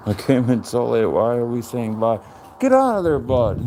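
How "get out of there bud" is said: sudden high call to the dog. Real, not acted. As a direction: shoo the dog away, pitched way up. Calling to the dog.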